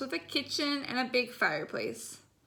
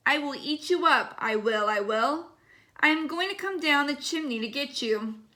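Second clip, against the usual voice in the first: growled threat. Acted. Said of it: "and he growled".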